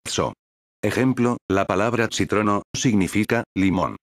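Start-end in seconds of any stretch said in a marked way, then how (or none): 0.0-0.3 "So" begun with a TS sound. Shown as a demonstration. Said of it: "se pronuncia como una T S". 2.1-2.6 "citrono" begun with TS; T plus S at the start of "citrono". Shown as a demonstration. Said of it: "se pronuncia como una T S".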